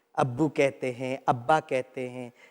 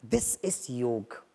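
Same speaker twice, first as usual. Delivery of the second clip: slow soft emphasis; 4 semitones lower, 6 dB quieter, much slower than usual. Shown as a demonstration. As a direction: stretch out "This is योग" very slowly and softly. Slow repeat of the phrase. ("This is योग" बहुत धीरे और धीमे स्वर में)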